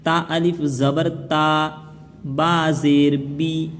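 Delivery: slow, measured Quranic spelling chant; recitation drill. Shown as a demonstration. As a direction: draw out each long vowel on a level tone. (धीमे, लय में हिज्जे का सबक)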